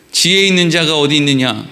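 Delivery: low, even verse recital; measured, formal Bible reading; scripture reading. Acted. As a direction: read the verse out evenly. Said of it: "그리고 또 이어서는 이렇게 돼 있죠".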